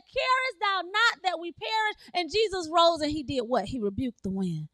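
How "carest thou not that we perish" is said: high, urgent quoted cry; acted plea. Disciple afraid of perishing to Jesus, high acted plea. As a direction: plead as the disciples, raised pitch. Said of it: "He said".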